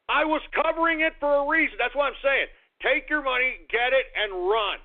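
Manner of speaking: high, emphatic protest; worked-up insistence. Real, not acted. Host defending his coverage to listeners, worked-up insistence.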